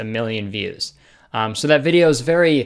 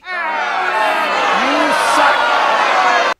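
mock heckle; 10 semitones higher than usual. Mock heckle after trilogy.

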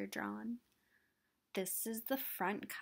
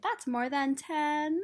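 mock surprise; 3 semitones higher, 5 dB louder than usual. Catches counting mistake.

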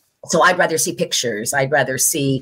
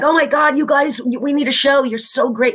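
gushing fans; 8 semitones higher than usual. Retold or imitated. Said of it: "people are like".

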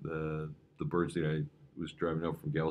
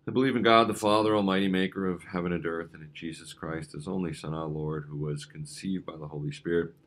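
measured liturgical recitation, opening louder; creed recitation; 3 dB louder than usual. Acted. Pastor leads the congregation in the creed, recited. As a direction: recite the creed steadily, line by line.

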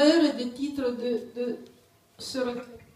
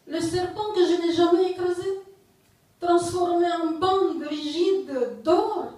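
measured poem recital with long pauses; poetry reading. Acted. Poet reading to an audience, poetry reading. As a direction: recite line by line, letting each image hang. Reads own poem aloud.

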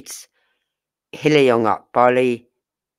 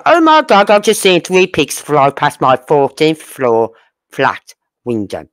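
mock amazement. Scoffing at the parents' claims, hammed-up mock astonishment. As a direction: gasp it out like you truly saw pigs fly. Sarcastic pigs fly remark.

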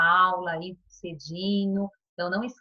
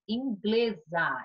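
inglesa said very slowly, each syllable clear; slow dictation; much slower than usual. Shown as a demonstration. Teacher to pupils giving the feminine, very slowly. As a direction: stretch out inglesa. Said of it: "Feminino de inglês".

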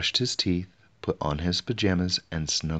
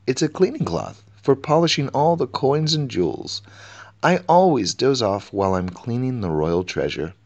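much higher, louder keeper correcting the king; flustered treasure keeper; 6 semitones higher, 5 dB louder than usual. A narrator's reading. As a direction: politely set the king straight, high and bright.

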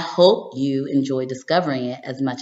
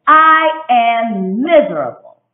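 slow, loud, higher shout of misery; 8 semitones higher, 9 dB louder, slower than usual. A narrator's reading. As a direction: belt it out as loud as she can. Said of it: "I shout out as loud as I can".

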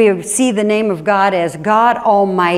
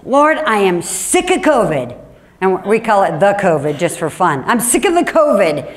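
mock prayer complaint. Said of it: "sort of like a prayer complaining".

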